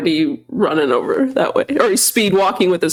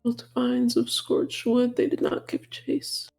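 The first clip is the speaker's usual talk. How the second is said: hushed reading; 4 semitones higher, 10 dB quieter, slower than usual. Acted. Reading the scorched note aloud.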